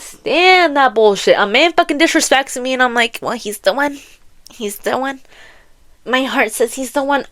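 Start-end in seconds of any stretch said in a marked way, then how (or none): 3.2-7.3 soft, swooning imitation; mock lovestruck. Mimicking a heroine who excuses a rude man, mock lovestruck. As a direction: murmur it like a smitten heroine.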